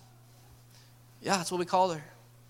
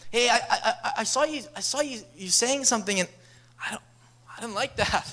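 awkward confrontation; 5 semitones higher than usual. Retold or imitated. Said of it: "we need to get into the deep stuff".

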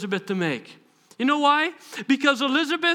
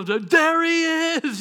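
excited sighting; 5 semitones higher, much slower than usual. Acted. Acts John spotting Jesus.

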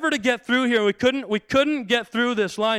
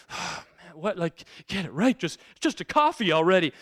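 frustrated grumble. Retold or imitated. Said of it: "came on frustrated".

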